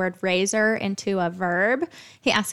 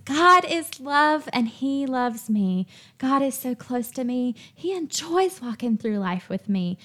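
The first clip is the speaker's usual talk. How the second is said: spoken affirmations; 3 semitones higher than usual. Acted. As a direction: declare each line with conviction.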